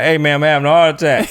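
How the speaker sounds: laughing through a panicked plea; half-laughing heart attack alarm. Retold or imitated.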